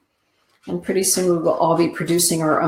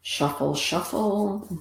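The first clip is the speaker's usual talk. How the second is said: soft murmur; 3 semitones higher, 9 dB quieter, slower than usual. Real, not acted. Shuffling cards.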